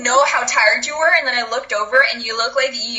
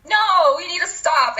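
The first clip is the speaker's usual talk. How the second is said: slow, drawn-out 'no'; imitating a firm stop; mock firm refusal; 4 semitones higher than usual. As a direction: put your foot down, playfully. Voicing the friend as stop button.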